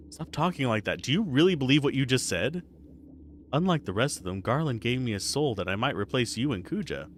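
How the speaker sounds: lightly voiced game dialogue. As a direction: read the characters gently. Voicing game characters.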